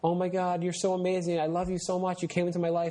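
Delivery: a hint of a lovestruck sixteen-year-old; gushing teen girl. Teen girl gushing to her boyfriend, lightly voiced gushing. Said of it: "sixteen-year-old girl is like".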